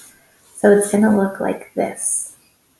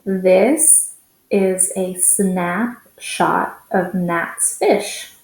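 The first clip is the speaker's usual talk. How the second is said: faster read; 2 semitones lower, much slower than usual. Shown as a demonstration. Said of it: "let's read it a little bit faster".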